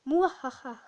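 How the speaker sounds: evil villain cackle; psychopath laugh. Acted. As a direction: mustache twirling villain laugh. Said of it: "rire de psychopathe".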